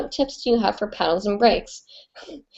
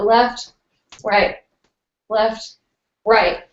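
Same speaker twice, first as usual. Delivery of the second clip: calling left right; much slower than usual. Shown as a demonstration. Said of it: "make sure you're moving left and right".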